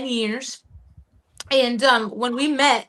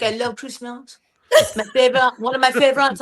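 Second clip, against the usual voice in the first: teasing imitation of a French accent; 2 semitones lower than usual. French friend answering about Christmas, imitated French accent. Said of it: "when I do this accent".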